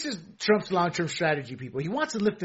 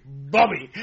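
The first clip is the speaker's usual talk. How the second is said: lightly imitated Asian-accent father, louder; mock Asian accent; 6 dB louder than usual. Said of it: "said it in a real Asian accent".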